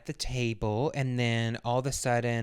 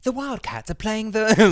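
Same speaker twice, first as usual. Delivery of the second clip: high, slow and building louder with glee; excited Samantha; 10 semitones higher, 5 dB louder, slower than usual. Retold or imitated. Samantha bursting to tell the mother about the game, excited. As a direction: gush it out, rising excitement. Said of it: "She's like".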